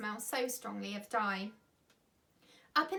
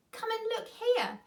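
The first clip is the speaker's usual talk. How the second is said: louder and higher, calling across the field; called out; 11 semitones higher, 5 dB louder than usual. A narrator's reading. Man at the gate calling his partner, loud call. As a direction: call him over to look. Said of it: "he called to the other man".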